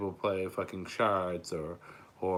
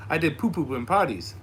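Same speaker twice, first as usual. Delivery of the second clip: put-on higher little-kid voice; toddler voice; 6 semitones higher, 5 dB louder than usual. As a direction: say it like a proud toddler. Voicing his toddler son.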